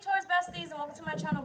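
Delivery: bright, lifted greeting to viewers; sing-song intro. Real, not acted. Vlogger greeting her Taurus viewers, sing-song and lifted. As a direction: hype up the welcome.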